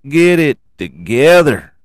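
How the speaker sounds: hammed-up Southern preacher twang; Baby Billy voice. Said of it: "I keep doing that voice".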